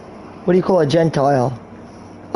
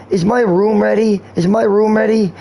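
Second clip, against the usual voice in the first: lightly voiced crazy guy, slightly raised pitch; a hint of a higher-pitched, repetitive nut; 5 semitones higher than usual. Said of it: "how you know if he's crazy".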